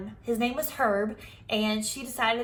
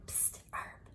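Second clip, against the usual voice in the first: much softer breathy whisper; 18 dB quieter than usual. Acted. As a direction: sneak a whisper to a friend. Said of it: "I whispered".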